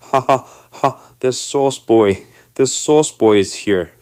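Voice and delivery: loud, high mock laugh into a jeer; imitated laughing. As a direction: slowly crow it out like someone laughing at a customer. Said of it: "he starts laughing".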